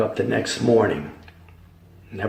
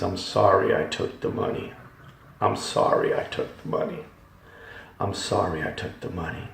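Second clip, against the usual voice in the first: fading quiet plea; 2 semitones lower, 6 dB quieter than usual. Retold or imitated. Damned souls' repeated apology.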